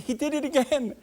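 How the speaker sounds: mock wife's thrilled cry; excited wife. Wife excitedly stabbing the screen.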